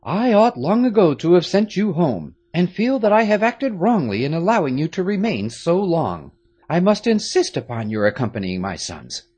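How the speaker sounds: a grave father giving orders, a touch of urgency; Marquis, grave father. A narrator's reading.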